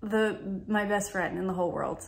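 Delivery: emotional tears. Real, not acted. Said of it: "I can't even believe I'm crying".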